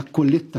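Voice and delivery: "colheita" said as "colheta"; borrowed mispronunciation of "colheita", no i; Lula's pronunciation. Retold or imitated. Co-host echoing the colleague's mimicry, "colheita" as "colheta". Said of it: "à pronúncia do Lula".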